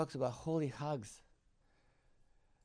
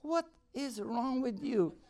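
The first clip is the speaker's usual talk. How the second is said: exasperated laugh; 9 semitones higher, slower than usual. Retold or imitated. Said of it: "I'm going".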